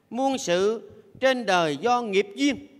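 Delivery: ngân chậm từng chữ; ngâm như câu kệ; ngâm thơ. Acted. (giọng ngâm thơ chậm)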